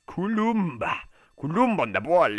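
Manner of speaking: loud, high name call; high, punched exclamation; excited commentary shout. Real, not acted. Excited live play-by-play call.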